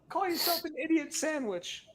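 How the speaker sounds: very high, softened mock chef scolding; Gordon Ramsay. Ramsay fan quotes idiot sandwich insult, high muted mock scolding. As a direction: scold in a small high put-on voice. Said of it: "Gordon Ramsay".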